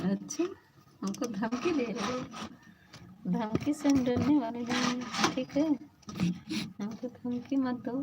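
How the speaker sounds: mock defiance. (ऊँची आवाज़ में नकली बहादुरी)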